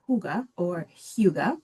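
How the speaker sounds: "hygge" given two ways, slowly; two pronunciations. Shown as a demonstration. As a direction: say "hygge" slowly as HOO-guh, then HYOO-guh. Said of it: "So it is pronounced".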